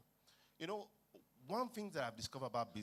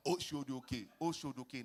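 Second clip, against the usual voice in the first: conductor calling; 5 dB louder, slower than usual. Retold or imitated. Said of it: "Conductors that can shout".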